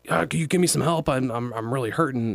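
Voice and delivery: lightly yelled Brooklyn plea for help; Brooklyn accent. Retold or imitated. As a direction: imitate a hurt robot in a Brooklyn accent. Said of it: "he starts yelling at you in this, like, very Brooklyn accent".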